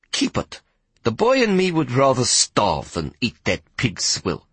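slow, haughty dismissal. Acted. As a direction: look down on the pig's swill. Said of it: "she said haughtily".

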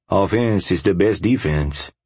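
slow Cajun twang; lazy Cajun accent, unbothered; Cajun drawl. Acted. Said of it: "drawled in his thick Cajun twang".

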